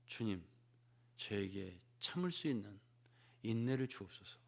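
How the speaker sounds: a hushed little prayer for patience; quiet prayer. Acted. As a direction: pray it softly to the Lord. Voiced prayer in sermon.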